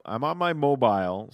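"mobile" said as MO-bile, rhyming with "file"; British "mobile", with a long i in the ending; British-style mobile. Real, not acted. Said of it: "How very British of you".

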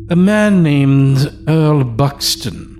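a hint of a stiff elderly butler; old servant delivering a message. Old servant explains visitor.

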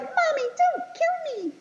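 put-on very high, slow baby voice; talking fetus. Fetus begging its mommy, high slow pleading voice. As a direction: plead slowly in a tiny squeak. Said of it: "the fetus is like".

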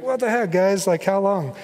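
incredulous, exasperated outburst, lightly acted; acted exasperation. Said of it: "I would be sinfully exasperated".

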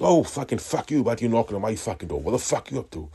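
high, heated acted-out challenge; angry retort. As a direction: fire back at an intruder. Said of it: "not like me to get angry".

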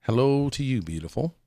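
slow breathy whispered intro; breathy vintage purr. Acted. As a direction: purr the show name like an old radio host.

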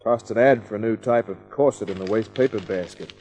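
hardboiled first-person voiceover; noir detective narration. A narrator's reading. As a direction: tell it like a world-weary private eye. Kent narrates his night.

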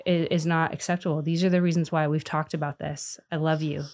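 put-on soft, steady correction of a child. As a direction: draw the child in, calm and loving. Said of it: "I'm actually softer with them".

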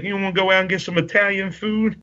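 high put-on voice, mimicking an invitation; Slick. Wrestler asking a girl out for Italian food, high mimicked voice. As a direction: imitate a wrestler's high-pitched come-on. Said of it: "He's like".

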